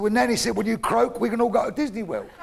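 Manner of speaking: lightly voiced grandson; six-year-old grandson. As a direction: explain it brightly as a little boy. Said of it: "six-year-old".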